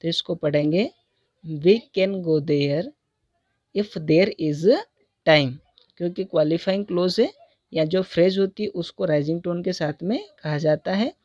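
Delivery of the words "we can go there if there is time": "We can go there" falling, "if there is time" rising, slow; falling then rising tune. Shown as a demonstration. Teacher reading the example clause by clause, falling then rising. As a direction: drop on "there", then rise through "if there is time". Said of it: "इसको हम falling tone के साथ में बोलेंगे".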